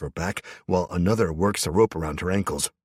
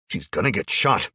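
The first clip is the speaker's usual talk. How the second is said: too loud; 3 semitones higher, 4 dB louder than usual. Acted. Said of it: "I say it all too loudly".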